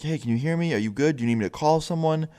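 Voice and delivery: retold attempt to reach someone unresponsive; checking on someone. Friend keeps trying to make contact.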